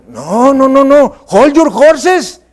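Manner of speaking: slow drawn-out English aside; teasing halt, stretched out; playful hold it. Pretend. Preacher teasing a congregant, slow playful halt. Preacher mock-stops a listener.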